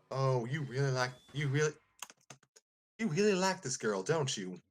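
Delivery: teasing Parakarry. Acted.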